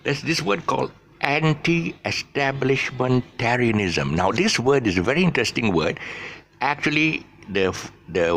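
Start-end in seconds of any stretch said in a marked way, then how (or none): 1.2-4.1 "anti-establishmentarianism" drawn out syllable by syllable; stressed syllable demo. Shown as a demonstration. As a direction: sound out "anti-establishmentarianism" slowly, higher in pitch. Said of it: "with the stress syllables".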